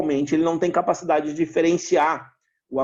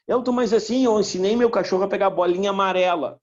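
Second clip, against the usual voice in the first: lightly voiced owner, pitched higher; dog owner's claim; 5 semitones higher than usual. Dog owner insisting they taught the dog colours, in a higher mock voice. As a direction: put on a higher voice for someone else's claim.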